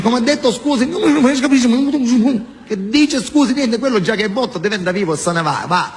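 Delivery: high puzzled Venetian voice; confused Veneto man; Venetian accent. Retold or imitated.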